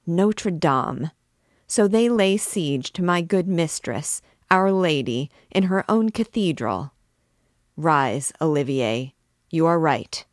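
a king realizing the mob attacks him; trembling rage. Acted. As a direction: let the fury rise line by line. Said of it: "pale and trembling with rage".

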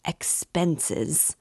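a sharp, incredulous 'Expenses?' thrown back; mother repeats his word in outrage; furious disbelief. Acted. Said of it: "Pulcheria Alexandrovna was furious".

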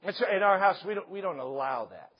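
ordinary delivery

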